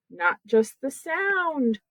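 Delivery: "sound" drawn out slowly; slow teacherly stress on "sound". Shown as a demonstration. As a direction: stretch the word "sound" for contrast. Contrasting sound with word.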